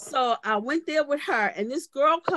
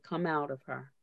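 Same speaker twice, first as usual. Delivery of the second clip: calm command; 7 semitones lower, 10 dB quieter than usual. Retold or imitated. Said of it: "She looked in her eyes".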